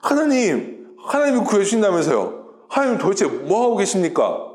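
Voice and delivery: lightly acted indignant complaint; mock protesting. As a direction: demand answers, ending in rising, repeated whys. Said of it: "하나님에게 막 가서 따지는 거예요". (따지듯 불평하는 흉내)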